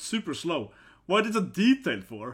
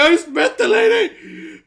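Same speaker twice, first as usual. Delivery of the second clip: flustered guy voice; 10 semitones higher, 6 dB louder than usual. Acted. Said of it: "this is like".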